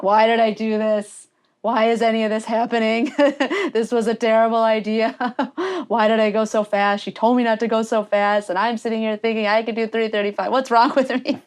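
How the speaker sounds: mock-exasperated self-questioning with laughs between; retold regret, lightly exasperated and giggly; laughing self-reproach. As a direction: berate yourself while amused. Retold mid-race regret, laughing.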